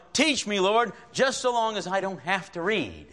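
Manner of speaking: lightly acted excuse-making prayer; mock half-hearted prayer. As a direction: plead conditionally, pitched a little high. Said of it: "how many times I pray".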